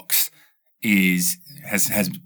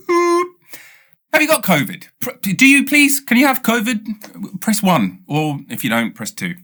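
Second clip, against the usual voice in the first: high, insistent robot menu; mock pushy phone menu; 11 semitones higher than usual. Mocking the phone menu that keeps asking about covid, high and pushy. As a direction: pitch it up and nag like a machine.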